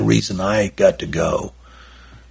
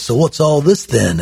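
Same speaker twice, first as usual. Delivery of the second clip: a light, higher English accent, half-attempted; a quick stab at an English accent; George Harrison's accent; 7 semitones higher than usual. Bob's friend questioning the Beatle button, mock English accent. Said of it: "I can't do George Harrison's accent".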